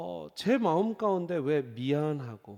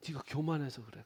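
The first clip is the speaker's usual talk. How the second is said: Gyeongsang dialect; 2 semitones lower, 7 dB quieter than usual. Retold or imitated. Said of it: "경상도 사투리도 쓰시는".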